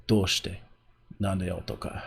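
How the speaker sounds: quick, clipped-pace anime character lines; fast Japanese anime delivery; Japanese trigger voice. Shown as a demonstration. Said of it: "to get into the voice".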